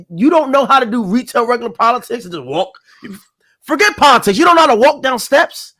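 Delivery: high-pitched, exasperated disbelief; incredulous scolding, playfully acted; mock incredulity. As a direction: retell your baffled reaction, pitch lifting. Acted incredulous reply to the video.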